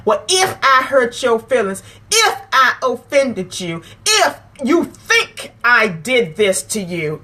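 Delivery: slow, grudging mock apology; dismissive non-apology. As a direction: drag out the ifs like a fake sorry. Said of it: "that's how we talk".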